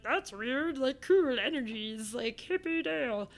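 a hint of a mellow hippie voice, slow on cool energies; laid-back hippie. Shrugging off the haunting in a mock hippie voice. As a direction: lightly put on a chill stoner shrug. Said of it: "I was like".

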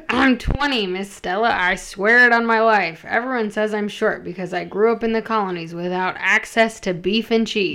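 lightly voiced young sailor lad; a hint of the put-on sailor voice; the disguise voice. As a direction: put on a slight voice for a woman posing as a sailor. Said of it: "I gotta do the voice".

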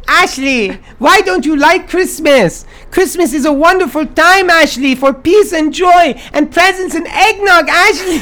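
ghost voice. Acted. Christmas lady speaks.

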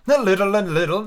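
high, slightly jittery reply; rather nervous. A narrator's reading. King replying to the unicorn, rather nervous high voice. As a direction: answer with a touch of nerves. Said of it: "the king replied rather nervously".

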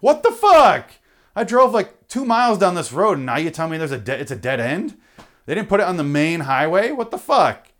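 high, loud incredulous outburst; outraged rant. Retold or imitated. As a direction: yell at the dead end like it betrayed you. Outraged at dead end sign.

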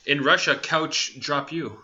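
slow Russian-style punchline; mock Russian accent. Comic caps Russia story with reversal joke, mock Russian. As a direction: space out the joke in light Russian.

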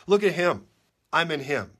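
loud, punchy point to Jesus; emphatic declaration. Pretend. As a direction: slam it down.

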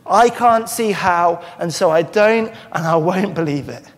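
a hint of Zechariah's stubborn disbelief; stubborn refusal. Preacher voicing Zechariah refusing the angel, stubborn. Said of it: "point blank refusing to believe".

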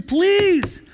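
high, pleading voice that almost cracks; desperate begging. Retold or imitated. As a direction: beg on your knees for your life. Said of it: "starts saying".

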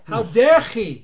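loud, high and slow outraged cry; indignant shout. Acted. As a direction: bellow it in mock indignation. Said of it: "No, he".

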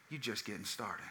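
said through a chuckle; laughing nurse. Retold or imitated. Nurse teasing the new dad, laughing as she speaks. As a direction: tease him gently while laughing. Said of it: "she goes".

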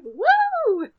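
high, loud cheer; whooping. Retold or imitated. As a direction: let out a gleeful whoop. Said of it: "he's just like".

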